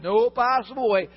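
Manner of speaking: loud, cold refusal; angry creditor refusing mercy; harsh refusal. Acted. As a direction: slam the door on him. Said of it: "He says".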